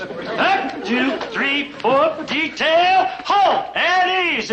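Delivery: slow drawn-out parade-ground commands, rising high; drill commands. Acted. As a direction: stretch out each command like a sergeant halting a squad. Father drills boys in formation.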